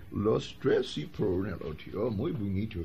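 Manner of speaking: a gringo mangling Spanish phrases, pleased; broad American accent on Spanish words. Acted. The yanqui repeating his new phrases in an American accent.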